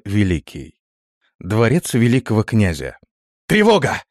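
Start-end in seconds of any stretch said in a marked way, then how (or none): 3.5-4.0 high, loud panicked cry; frantic yell. A narrator's reading. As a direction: shout the alarm at full voice. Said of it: "Истошный вопль часового".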